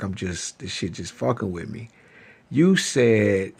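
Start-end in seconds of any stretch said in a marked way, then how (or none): 0.0-1.9 quiet mumble. Retold or imitated. Retelling his own low reply.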